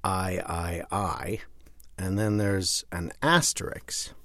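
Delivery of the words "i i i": breathy whisper, no voice; whispered small print. Shown as a demonstration. Reading tiny print off the cover, whispered. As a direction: hush it like tiny footnote text.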